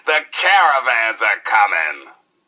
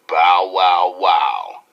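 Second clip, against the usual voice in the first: mock bark; 4 semitones lower, much slower than usual. DJ barks his own nickname.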